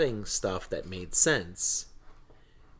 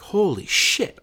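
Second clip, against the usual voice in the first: higher, louder burst of triumph; excited exclaim; 10 semitones higher, 7 dB louder, slower than usual. Retold or imitated. Dad solving the long proof at last, excited outburst. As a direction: blurt it like the answer just clicked.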